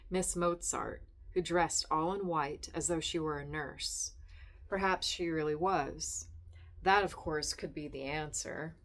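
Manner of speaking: measured reading of a literary story; lightly voiced literary narration.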